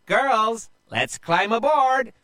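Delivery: high, loud rallying cry; woman captain calling the charge; pirate captain's yell. Acted. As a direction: yell orders to your crew. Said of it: "a woman pirate captain yelled".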